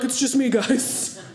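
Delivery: put-on slow, a touch of a childlike voice; innocent giant kid. Dad telling his soccer team it's just him, slow and innocent. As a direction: reassure the team, slowly.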